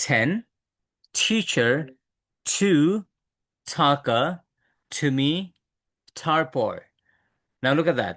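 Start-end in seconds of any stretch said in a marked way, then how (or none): 0.1-6.7 "Ten, teacher, two" separately, each t aspirated from behind the upper teeth; t sound. Shown as a demonstration. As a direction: puff the first t of "taka, to me, তারপর". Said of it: "উপরের দাঁতের গোড়ায় যাবে".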